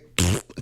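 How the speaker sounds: short mock raspberry; blown raspberry. Host tells the highway off, mock raspberry. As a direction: blow a brief raspberry at the traffic. Rude noise aimed at traffic.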